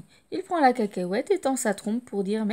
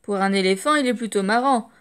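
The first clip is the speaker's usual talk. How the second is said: mocking taunt; 4 dB louder than usual. Children mocking Dumbo.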